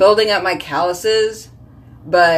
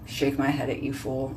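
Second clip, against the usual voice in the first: low mock scolding; 5 semitones lower, 9 dB quieter than usual. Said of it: "I was like".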